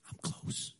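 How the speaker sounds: very soft, voiceless whisper; hushed, intimate whisper. Acted. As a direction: whisper it close to the ear. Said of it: "here's why he's whispering".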